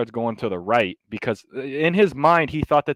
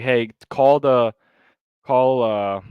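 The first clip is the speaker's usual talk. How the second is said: calling out; 2 semitones higher, 6 dB louder, slower than usual. Retold or imitated. Calling out to a colleague.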